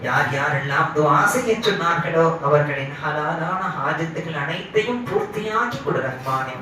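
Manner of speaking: chant-like, measured dua; supplicating prayer. Real, not acted. Preacher leading dua to the Merciful for forgiveness, reverently pleading.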